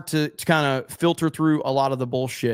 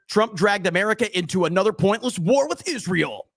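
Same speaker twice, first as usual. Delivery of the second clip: mock know-it-all commenter; 5 semitones higher than usual. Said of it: "I'm something of a foreign policy expert".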